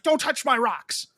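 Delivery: high, loud mock snap; retold angry order. Neighbor lady guarding her rocks, retold angry order. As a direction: order them off, imitating an irate lady. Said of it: "She gets so mad".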